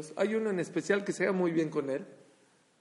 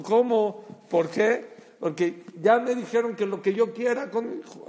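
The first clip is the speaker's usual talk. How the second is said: retold child's delight, loud and higher; excited child; 7 semitones higher, 8 dB louder than usual. Child tells parents he gets whatever he wants, excited. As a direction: burst out high and loud like a thrilled kid.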